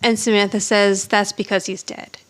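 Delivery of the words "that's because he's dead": deadpan. Retold or imitated. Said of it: "all deadpan".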